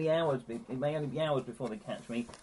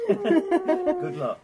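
high whistling droid beeps; 11 dB louder than usual. Acted. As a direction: sing it like a chirpy little robot. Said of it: "Very musical".

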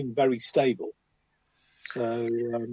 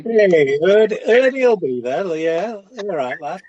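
Eddie Waring impression; 3 semitones higher, 6 dB louder than usual. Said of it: "Was that a bit Eddie Wearing".

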